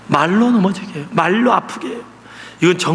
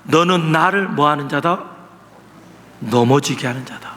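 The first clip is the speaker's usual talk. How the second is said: Jesus rebuking; 4 semitones lower than usual. Retold or imitated. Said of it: "그리고 하는 말이".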